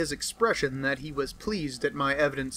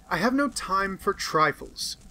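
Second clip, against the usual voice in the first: brusque; 4 semitones higher than usual. Acted.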